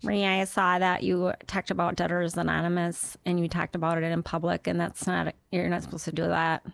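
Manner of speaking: put-on polite scolding in a Duluth accent. Duluth local reproaches comedian for talking in public, scolding Duluth accent. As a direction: gently tell someone off in Duluth speech. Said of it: "Are people from Duluth always scolding?".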